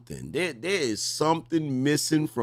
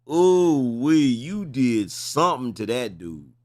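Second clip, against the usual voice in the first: loud knowing ooh-wee; 4 dB louder, slower than usual. Real, not acted. Host reacting to the story.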